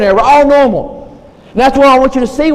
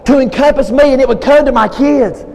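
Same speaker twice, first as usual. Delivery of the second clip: pleading prayer in a raised, rolling cadence; fervent prayer; 2 semitones higher than usual. Shown as a demonstration. Preacher modelling a prayer for his congregation, fervent prayer. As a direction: pray it earnestly, easing down on the last words. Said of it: "pray a prayer like this".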